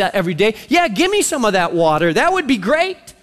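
mock-eager sarcasm, lightly done; the woman at the well mildly sarcastic to Jesus. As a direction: play it sweetly sarcastic, not meaning a word. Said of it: "There's sarcasm in, in her tone".

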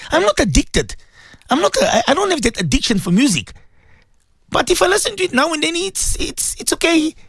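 lightly voiced whiny excuse with a dropped whisper; mock excuse-maker. Preacher imitating a listener excusing music, mock pleading. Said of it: "They say".

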